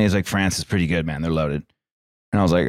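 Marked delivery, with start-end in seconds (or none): 0.3-1.6 lower, casual toss-off; nonchalant. Retold or imitated. Friend giving a betting tip, nonchalantly. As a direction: toss it off like it's no big deal. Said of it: "says it, like, nonchalantly".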